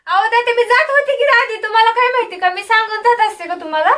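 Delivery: indignant protest. Acted. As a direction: protest loudly to a doubting father. Daughter protesting to suspicious father.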